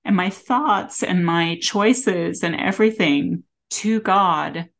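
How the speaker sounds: teary, voice close to breaking; after crying. Real, not acted. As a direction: speak through held-back tears. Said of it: "sorry, getting teary".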